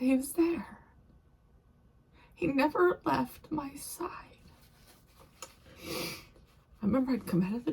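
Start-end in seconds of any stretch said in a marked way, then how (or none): 0.0-4.1 whisper. Real, not acted. Tearful memory of rescuer.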